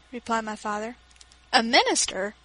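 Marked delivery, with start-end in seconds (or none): 1.5-2.3 louder, surprised exclamation; startled outburst; exclaiming. Acted. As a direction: blurt it out in surprise. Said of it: "exclaimed Teresa".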